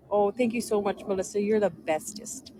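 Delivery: put-on baby voice. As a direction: coo it like baby talk to mock him. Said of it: "he says it in kind of like a, a babyest".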